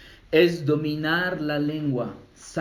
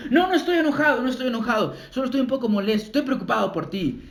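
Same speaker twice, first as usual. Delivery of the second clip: high, pleading denial fading down; defensive excuse; 5 semitones higher, faster than usual. Retold or imitated. A person excusing their anger to a family member, higher and pleading. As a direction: insist you're only a little upset. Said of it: "Y tú estás diciendo".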